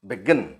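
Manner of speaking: teacher modelling stress in BEGIN; word stress demo. Shown as a demonstration. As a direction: BEGIN with the weight on GIN. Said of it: "यहाँ पर stress mark".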